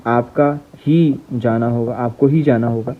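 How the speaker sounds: ही slowly drawn out and weighted; stress on ही. Shown as a demonstration. Teacher dictating the example with stress on ही. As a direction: dwell on ही in "आपको ही जाना होगा". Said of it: "ये एक sentence याद कर लेना".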